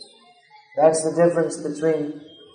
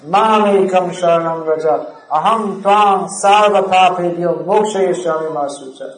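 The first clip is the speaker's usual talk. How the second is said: proclaimed with emphasis, a bit louder; very loudly. Retold or imitated. Krishna giving Arjuna his final essential instruction, loud and emphatic. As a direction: declare it as the final message. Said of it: "he says to Arjuna very loudly for more emphasis".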